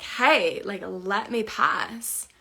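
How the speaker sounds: loud, firm demand to be let past. Retold or imitated. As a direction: stand your ground and tell him to move. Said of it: "maybe if I just get a bit firm with him".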